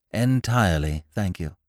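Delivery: firmly emphatic reply; a touch of firm insistence. A narrator's reading. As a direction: answer with clear emphasis. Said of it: "said Mary with emphasis".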